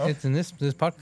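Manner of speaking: talking through a bite of pastry; chewing while speaking; mouth full. Real, not acted. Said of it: "I'm eating Portos".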